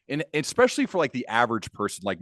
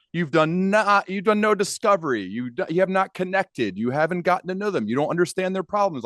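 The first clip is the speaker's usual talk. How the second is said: lecturing dad; 5 semitones higher than usual. Retold or imitated. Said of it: "he would go".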